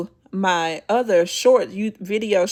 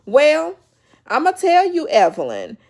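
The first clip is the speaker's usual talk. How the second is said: loud, higher mock yell at Evelyn; retold scream; 6 semitones higher, 4 dB louder than usual. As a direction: call her out, half-yelling. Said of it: "screamed and she said".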